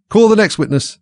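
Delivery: high, loud royal summons; calling out. A narrator's reading. King calling the next witness, loud high proclamation.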